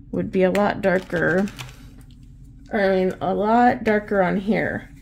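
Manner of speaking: talking around a paintbrush held in the mouth; words muffled by a brush between the lips. Real, not acted. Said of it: "I have a paintbrush in my mouth".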